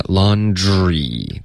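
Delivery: LAUNDRY very slow, long final ee; clear final E. Shown as a demonstration. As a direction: stretch LAUNDRY so the E is heard. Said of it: "这个E的音没听见". (“laundry”慢读，E的音要听见)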